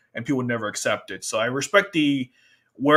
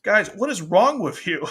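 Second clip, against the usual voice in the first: Yuffie; 7 semitones higher, 4 dB louder than usual. Retold or imitated. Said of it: "Yuffie's like".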